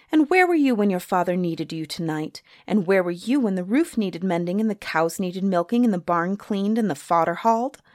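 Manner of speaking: piling up reproaches, mildly heated; angry scolding. Acted. Suni scolds Charlie for not helping father, angry. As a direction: scold him with a list of failings. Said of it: "angry as she could be".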